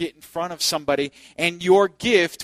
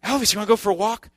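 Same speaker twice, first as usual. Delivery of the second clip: higher, quick dog-walk invitation; inviting the dog; 5 semitones higher, 3 dB louder, much faster than usual. Retold or imitated. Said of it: "We'd say".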